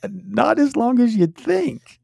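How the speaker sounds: sheepish laughing answer; laughing confession. Real, not acted. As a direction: laugh it out, slow and high. Confessing the AI-written card.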